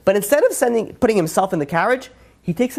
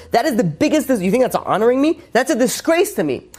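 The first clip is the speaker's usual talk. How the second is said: mock royal outrage, pitched up; outraged king; 6 semitones higher than usual. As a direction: play an insulted king, drawing it out.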